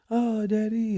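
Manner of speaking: put-on high sweet toddler voice; imitating child. Father voicing his younger son hugging him at pickup. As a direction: coo it like a little kid. Kid greeting dad at pickup.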